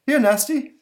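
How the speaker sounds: high, loud monster call; monster shouts. Acted. Monster calling to the boy in the tree, loud and high. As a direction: bellow up at the kid. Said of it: "shouts the monster".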